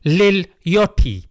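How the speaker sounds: a rapper's name said slowly in a British accent; British pronunciation, rounded o and crisp t. Shown as a demonstration. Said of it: "if I say it in the British accent".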